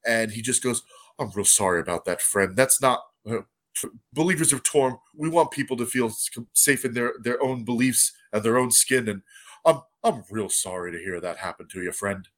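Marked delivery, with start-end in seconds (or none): 1.2-12.3 a hint of a gentle priest, lower; low sincere cleric. GM voices Darius apologising.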